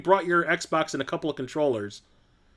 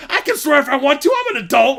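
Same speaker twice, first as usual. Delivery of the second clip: loud, high indignant comeback; wife defending her swearing, loud and high; defiant retort; 10 semitones higher, 9 dB louder than usual. Retold or imitated. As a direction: shout back that you're a grown-up. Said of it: "She's like".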